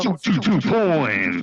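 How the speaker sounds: slow, high robotic monotone. Pretend. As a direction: announce it like a robot. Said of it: "one more real quick with the robot voice".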